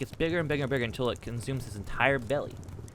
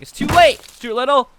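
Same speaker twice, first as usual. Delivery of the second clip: high, full-volume dramatic shout; Eddie Murphy; 13 semitones higher, 11 dB louder than usual. Acted. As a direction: shout it as a doom-laden declaration. Eddie Murphy's triumphant acted reply.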